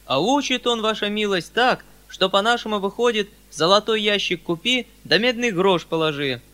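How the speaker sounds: высокий громкий голос мужика-просителя; жалуйся барину как бойкий крестьянин; говорливый мужик. A narrator's reading. (мужицкая жалоба)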